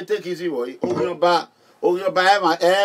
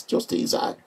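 hushed quote; 7 dB quieter than usual. Retold or imitated. Telling wife to stay in car.

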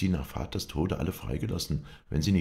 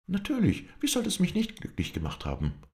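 indignant exclamation. Acted. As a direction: fling the words back at him. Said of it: "Sie setzte an zu dem Ausruf".

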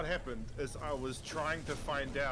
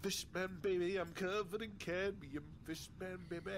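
whispered fish man croak; 4 semitones higher, 8 dB quieter than usual. Pretend. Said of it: "Listen to me go blub".

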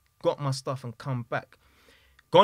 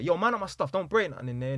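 half-hearted mock shout; retold shout; 4 semitones higher than usual. Son warning the man off his stuff from another room, mild retold shout. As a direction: lightly imitate someone calling out. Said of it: "I heard him shout from the".

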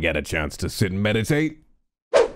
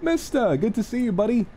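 high affectionate voice; 9 semitones higher than usual. Real, not acted. Greeting pet warmly.

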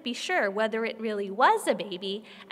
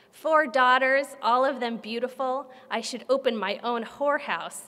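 annoyed. Acted. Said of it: "in a tone of complete annoyance".

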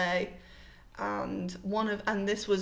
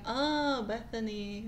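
imitating children's drawn-out "oh"; pupils' recognition; slower than usual. Pupils finally get the teacher's name, drawn-out recognition. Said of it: "and they go".

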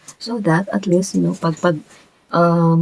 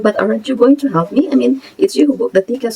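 mildly irritated retort, pitched up; 5 semitones higher than usual. Retold or imitated. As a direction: push back with retold irritation. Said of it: "I got kind of irritated".

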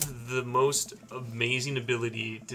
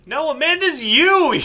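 loud laughing exclamation; 12 semitones higher, 10 dB louder, slower than usual. Real, not acted.

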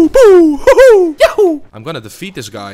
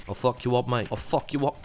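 mock Aussie accent; 6 dB quieter than usual. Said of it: "Should I try to talk like this".

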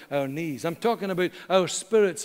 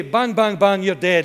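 mock gunfire; 6 dB louder than usual. Childhood cowboy game.

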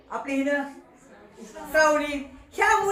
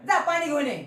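calling out; 2 semitones higher than usual. Shown as a demonstration. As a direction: summon him from across the room. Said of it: "श्यामला आवाज दिला". (हाक मारल्यासारखे)

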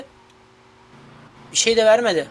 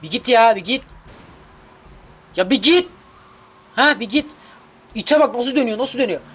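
urgent urging; 5 semitones higher, 3 dB louder than usual. Real, not acted. Urging the car on.

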